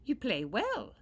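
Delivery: high, loud little-man voice; a grateful leprechaun, pitched high. Acted. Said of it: "said the leprechaun".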